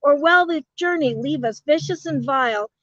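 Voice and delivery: grand rhythmic bard; poem reading. Acted. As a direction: recite it like an epic poem. Reads son's poem aloud.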